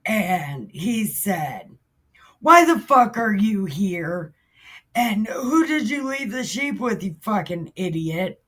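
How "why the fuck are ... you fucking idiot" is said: hammed-up scolding from an older brother; mock angry. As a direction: open hard, then ease off. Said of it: "he was mad as fuck".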